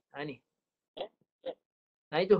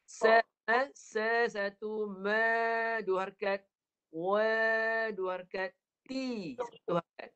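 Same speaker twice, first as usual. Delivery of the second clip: measured syllable demo; slower than usual. Shown as a demonstration. Teacher counts out recitation lengths.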